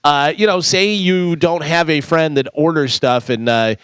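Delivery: steady sponsor read, then the news. Acted. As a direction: read the ad and weather like a radio newscaster.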